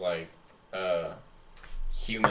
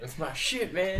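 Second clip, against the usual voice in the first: mocking echo; 10 semitones higher, slower than usual. Echoing friend in a voice.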